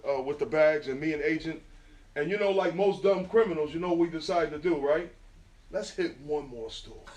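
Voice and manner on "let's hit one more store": slow, softer, laughing through the words. Retold or imitated. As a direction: chuckle at your own dumb idea. Retelling the fateful dumb decision.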